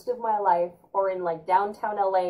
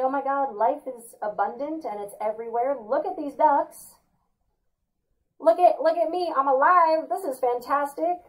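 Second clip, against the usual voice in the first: mock overjoyed; 5 semitones higher than usual. Host gushing to viewers about ducks, mock overjoyed. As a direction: gush over the ducks like a delighted fool. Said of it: "pretend none of that's happening".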